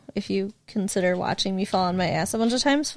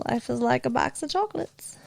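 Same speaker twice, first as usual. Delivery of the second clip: a weak attempt at a Southern accent, quieter; failed Southern accent; 5 dB quieter than usual. Quoting Forrest Gump to her boyfriend in a failed Southern accent. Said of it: "I have no kind of Southern accent".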